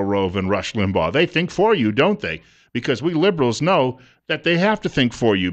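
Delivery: lightly voiced smug liberal, swinging pitch; mock liberal lecturing. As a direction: imitate liberals lecturing the right, mock-earnest. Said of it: "they're turning around saying to all of the people on the right".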